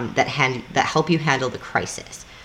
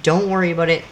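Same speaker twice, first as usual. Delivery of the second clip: lightly voiced other driver, higher, easy and forgiving; 4 semitones higher than usual. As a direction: play the other driver, higher, brushing it off kindly. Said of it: "they'll be like".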